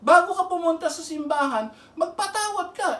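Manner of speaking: high, urgent, pressing the point; fervent preaching. Real, not acted. Preacher pleading with the unforgiving, fervent. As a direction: drive it home with rising fervor.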